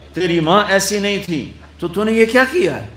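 high, fast outraged question; scandalised taunt. Retold or imitated. Crowd rebuking Maryam, high fast taunt. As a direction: fire the accusation up high and quick.

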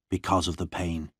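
plain reading voice

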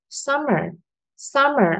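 "summer" with a high, strong "sum"; stress on first syllable. Shown as a demonstration. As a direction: pitch up on "sum" in "summer", drop lightly onto "mer". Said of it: "trọng âm rơi vào âm tiết thứ nhất". (nhấn cao âm đầu "sum" trong "summer")

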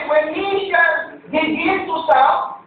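"shall" weighted, slowed reading; stress on shall. Shown as a demonstration. Pastor explaining verse, slowing on "shall". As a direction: press on "shall" for the point. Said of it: "how can we separate".

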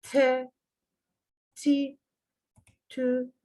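"tü" between ü and u; Arabic letter sounds. Shown as a demonstration. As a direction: say "T, ti, tü" as Arabic syllables. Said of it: "ü ile u arası bir ses". ("tü" ü ile u arası)

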